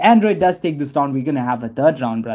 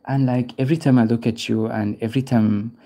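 lower, understated pretend sweet talk; mock flirting; 4 semitones lower than usual. Streamer pretending to chat up Joanna, mock flirting. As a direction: lay on a pretend pick-up line, low. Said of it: "I'll just be like".

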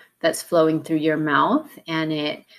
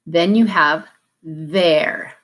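slow, careful "there"; slow model; slower than usual. Shown as a demonstration. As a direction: say "there" slowly for students to copy. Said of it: "Repeat that".

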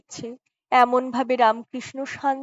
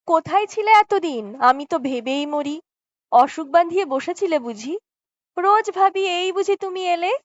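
smiling; 6 semitones higher than usual. A narrator's reading. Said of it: "হেসে রামকৃষ্ণ বলল".

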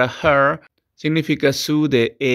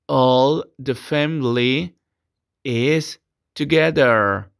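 slow, clear sentence for repetition; slow English teacher model; much slower than usual. Shown as a demonstration. Teacher dictates the model sentence to students. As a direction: articulate each word for the class.

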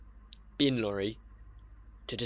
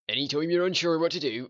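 mocking the adviser; 4 semitones higher, 4 dB louder, faster than usual. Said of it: "I fucking know you've told me this before".

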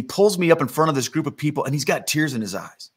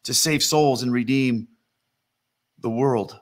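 firm declaration, slowing to a deliberate close; resolute, drawing out the mission; steely resolve. Retold or imitated. Preacher voices Jesus facing the cross, steely resolve. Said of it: "set his face like flint".

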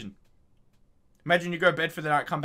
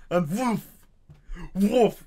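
mock rocket sound; 2 semitones higher, much slower than usual. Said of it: "that's how I imagine rocket launchers go".

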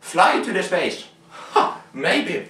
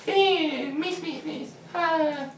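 calling the cat; 12 semitones higher, 4 dB quieter, slower than usual. Pretend. Coaxing the cat over.

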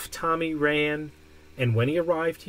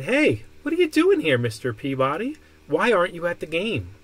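cheerful shopkeeper voice; 3 semitones higher, 4 dB louder than usual. Acted. Shopkeeper Funkadeli greets Peabody.

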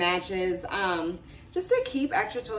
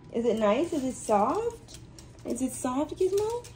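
dog talk; 3 semitones higher than usual. Real, not acted. Asking dog about bed.

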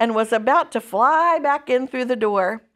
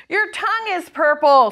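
raised, louder mock scream; screamed taunt; 7 semitones higher, 5 dB louder than usual. A narrator's reading. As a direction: cry it out like a teasing girl. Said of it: "screamed Fern".

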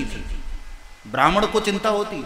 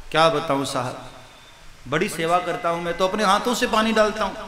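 meek helpless reply; 2 semitones lower than usual. Acted. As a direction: answer like a hurt, helpless priest. Meek Brahmin answers again. (आहत ब्राह्मण का धीमा, दबा हुआ, बेबस जवाब)

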